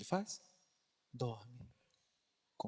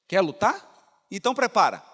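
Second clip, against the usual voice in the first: stern challenge; 3 semitones higher, 10 dB louder than usual. Acted. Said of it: "ouve uma voz assim".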